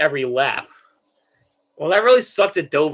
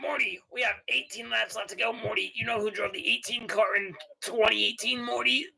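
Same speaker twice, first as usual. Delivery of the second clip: raised, halting cartoon grandpa voice; Rick; 6 semitones higher, 3 dB quieter than usual. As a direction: quiz the kid, tacking the name on. Plays Rick quizzing Morty.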